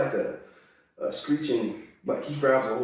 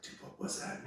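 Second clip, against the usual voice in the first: breathless whisper; 16 dB quieter than usual. Retold or imitated. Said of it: "and I'm like".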